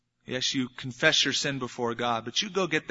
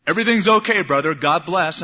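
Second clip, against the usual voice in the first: breezy brush-off; 6 dB louder than usual. Pretend. Breezy goodbye before splitting off.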